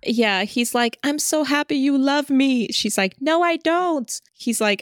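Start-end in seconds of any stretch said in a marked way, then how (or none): 1.0-2.7 mock teasing. Teasing banter between the two. 3.2-4.1 mock denial. Defensive denial in banter.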